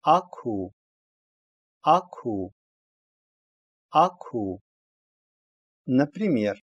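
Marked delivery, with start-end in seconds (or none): 0.0-4.6 "аку" with a voiceless, puffed "к"; read as "аку". Shown as a demonstration. Teacher reading out a letter combination, "аку" with voiceless "к". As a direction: say "аку" in two distinct syllables. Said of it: "читается".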